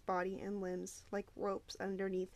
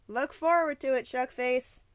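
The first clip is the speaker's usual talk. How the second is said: loud, raised taunting call; shouting from below; 3 semitones higher, 8 dB louder than usual. A narrator's reading. Bully shouting from below, loud taunt. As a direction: jeer it up the stairs. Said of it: "Gally shouted from below".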